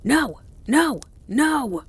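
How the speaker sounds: high, loud dog-like howled refusals; malevolent howl. A narrator's reading. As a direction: howl each word back viciously. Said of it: "in a malevolent howl".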